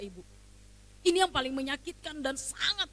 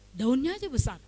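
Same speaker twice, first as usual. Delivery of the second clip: louder, pressed statement of the complaint; emphatic complaint; 8 dB louder than usual. Retold or imitated. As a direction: stress it as a bitter grievance. Emphatic complaint about cabbage.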